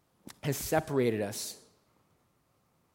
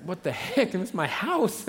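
higher, put-on voice of a shocked homeowner; outraged homeowner; 4 semitones higher than usual. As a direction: play the homeowner staring at his torn-up roof. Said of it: "You're like".

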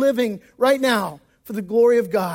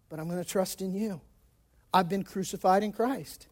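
softer, hushed prayerful trust; lowered voice of a believer praying through pain; quiet surrender; 3 semitones lower, 5 dB quieter than usual. Acted. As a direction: let it drop to a near-private prayer.

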